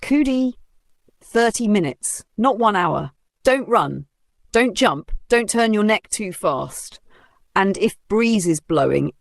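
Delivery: fussing over the borrowed wig; anxious instructions. Acted. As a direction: friend laying down rules, mildly anxious. Anxious strict warnings.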